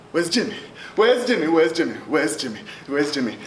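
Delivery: shouting over and over, high and loud; a crowd's frantic high yell for Jimmy; frantic calling out. Acted. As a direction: call out desperately for a missing friend.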